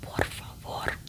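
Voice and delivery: por favor whispered with a rolled Spanish r. Shown as a demonstration. Showing how Spanish speakers say por favor. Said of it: "you gotta roll that tongue".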